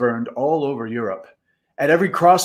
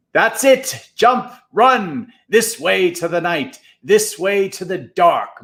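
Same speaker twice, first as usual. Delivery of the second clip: shouting; 6 semitones higher than usual. A narrator's reading. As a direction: shout like a general leading troops. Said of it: "shouting over the mobs".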